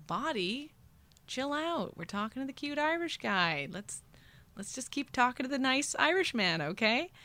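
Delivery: mock pleading. She begs her body to keep flirting, mock pleading. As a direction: talk your own body into behaving.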